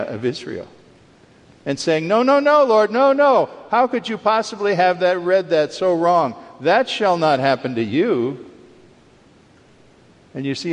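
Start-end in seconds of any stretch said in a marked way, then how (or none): 2.1-8.5 high, loud protest that eases down; acted-out rebuke. Peter objecting to what Jesus foretold, acted-out rebuke. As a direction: cry out in imitated alarmed objection, then settle into firm reproof.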